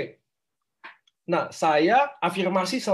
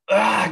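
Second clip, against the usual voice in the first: loud, higher "aah" of release; short demo yell; 5 semitones higher, 8 dB louder than usual. Shown as a demonstration. Coach showing how to let the feeling out, short yell. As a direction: let it burst out briefly. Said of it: "Teriaknya gitu loh".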